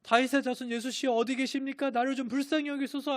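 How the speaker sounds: very high-pitched pleading shout, acted; desperate crying out. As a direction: cry out for someone you cannot see. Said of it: "소리 지르며 허우적대면서 더 크게".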